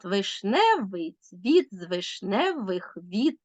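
slow beat landing on the second syllable of "Вишневий"; iambic scansion. Shown as a demonstration. Teacher demonstrating iamb, slow alternating stress on "з вишневих віт". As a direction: lean on every second syllable, "Вишневий цвіт", drawn out. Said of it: "ямб наголошується другий склад".

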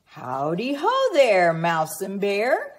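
a friendly hare calling hello; a hint of a folksy hare's howdy; Hare greeting. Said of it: "Along the trail hops Hare".

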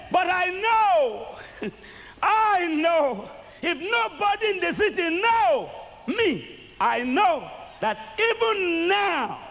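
high, slow pleading of faith; Martha's plea. Acted. Martha pleading before Jesus, high and slow. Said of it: "she stood before Jesus and said".

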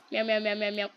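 quick run of meows at talking level; repeated meowing. Pretend. Player covering background noise, repeated meowing. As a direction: meow steadily as noise cover. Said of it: "Just screaming this in the mic".

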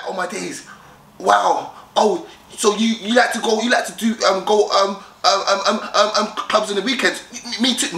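high, stammering mock eagerness; too excited. Mock guy reacting to a girl's hobbies, overexcited. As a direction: gush and trip over the words, hammed-up. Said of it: "You come across too excited".

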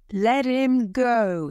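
high cry of protest; an old man crying out in protest; old man's cry. A narrator's reading. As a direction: call out high, demanding it. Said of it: "he cried".

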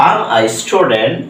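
Am a student stretched very slowly, Am said without I; slow teacher demo of Am a student, I dropped; careful slow drill; slow spoken-English model. Shown as a demonstration. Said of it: "I am উচ্চারণ না করে am উচ্চারণ করে".

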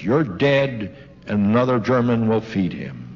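measured, deliberate command with falling pitch; retold stern threat. Russian officer orders German woman to feed patient, retold sternly.

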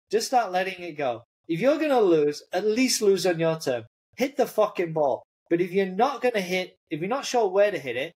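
a high, heated rant at his player, pitch way up; retold screaming. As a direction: yell it like a coach who finally snaps, but not full volume. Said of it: "he starts screaming".

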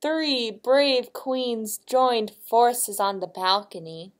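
expressive picture-book reading; story narration. A narrator's reading. Reading to a child as guests take aim, expressive narration. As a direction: read it out for a small listener.

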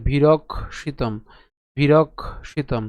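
বিরক্ষিতম said very slowly, bi-rok-shi-tom; slow, careful বিরক্ষিতম; slow pronunciation demo. Shown as a demonstration. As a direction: drag out each syllable of বিরক্ষিতম. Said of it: "ভেঙে উচ্চারণ করি".

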